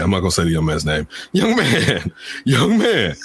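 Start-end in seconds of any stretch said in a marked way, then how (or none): 1.3-3.1 a high, pointed teacher's call; calling out a student he is fed up with; mock stern teacher. Teacher to student on the call, mock stern summons. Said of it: "He says".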